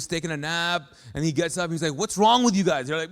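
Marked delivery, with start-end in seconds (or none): 2.0-2.9 exasperated shout. Acted. Jesus waking in the storm.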